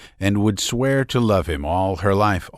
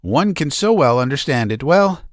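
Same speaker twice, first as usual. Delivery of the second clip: much higher, gushing comforting lady's voice; fussy older lady; 8 semitones higher than usual. A narrator's reading. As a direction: cluck over her like a doting matron. Maria Konstantinovna comforting Nadezhda.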